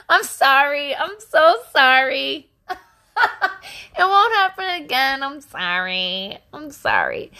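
high, drawn-out apology through laughter; laughing apology. Retold or imitated. Wife apologizing to husband after being called out, laughing. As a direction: retell a pleading sorry, cracking up.

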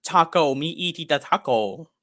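scornful mock retort, slowing into broken taco talk; mock rude brush-off. Telling Spanish-speaking customers he doesn't speak it, mock scornful retort. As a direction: sneer it, then fake broken English. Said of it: "I have to say".

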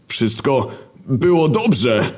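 high, slow protesting cry; Wojna's protest. Acted. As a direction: plead that it was all fine. Wojna defends himself to girlfriend. (wysoki, przeciągły protest)

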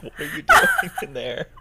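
high, loud mock mom voice; shrill parent barging in; aggressive mom. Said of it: "opens up the door all aggressively and it's like".

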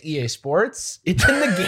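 slogan read like a trailer; announcer voice. Retold or imitated. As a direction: hype it like the EA Sports tag. EA Sports slogan impression.

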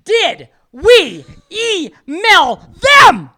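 over-enunciate in exasperation; exaggeratedly clear. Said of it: "said it twice, eloquently, clearly".

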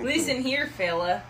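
a touch of a stern Midwest dad; lightly voiced scolding father; mock-stern dad calling out a fella. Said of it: "that was Midwest dad".

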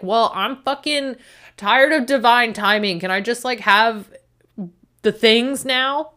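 tired of waiting, demanding; exasperated. Retold or imitated. Retorting own frustration.

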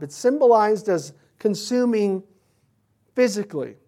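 ordinary talk, nothing marked

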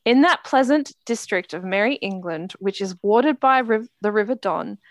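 measured literary read-aloud with lilting phrases. Shown as a demonstration. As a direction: read out the novel's opening sentence. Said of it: "I'll read the first sentence".

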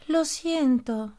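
slow, sighing "Lo siento"; sighed apology. Acted. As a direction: let it out on a slow sigh. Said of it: "suspiró la señora jirafa".

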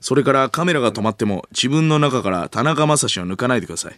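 lightly voiced intense acting coach; earnest, brisk instruction; 鈴木亮平. Lead actor coaching his co-star, earnest firm instruction. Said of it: "鈴木亮平の聖夜への演技指導がエスカレートしていく".

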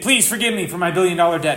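lightly dramatized pleading; retold pleading. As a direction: imitate a debtor begging for mercy. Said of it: "and pleaded".

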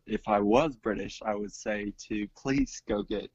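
half-hearted attempt at a British accent; badly faked British accent, barely changed from own voice; poor British accent. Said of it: "speaking in a British accent".

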